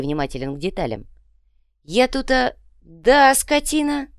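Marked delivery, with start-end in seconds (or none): 1.9-4.1 high, loud insulting yell; hungry goblin cursing his friends; angry outburst. Acted. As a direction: spit out the insult.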